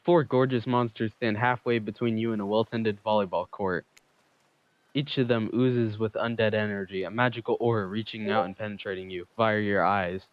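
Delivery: smooth narrator read; story narration. Acted. Narrator reading the game text to viewers, smooth storytelling. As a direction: narrate the scene like a dating sim.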